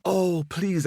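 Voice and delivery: high, excitable squirrel voice; boastful squirrel. Acted. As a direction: play a cocky, hungry little squirrel.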